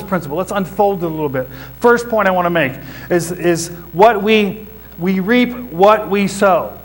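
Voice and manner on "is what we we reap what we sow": "what" leaned on, slow and drawn out; stress on what. Shown as a demonstration. Preacher to congregation, slowly stressing "what". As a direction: press hard on "what" in "we reap what we sow". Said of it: "And I stress the word what".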